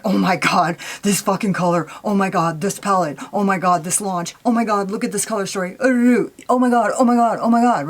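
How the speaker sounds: excited. Retold or imitated. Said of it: "when I'm excited about something".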